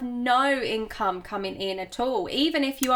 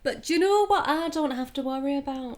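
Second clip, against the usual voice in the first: mock Yorkshire accent. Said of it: "I'm gonna stop doing this accent".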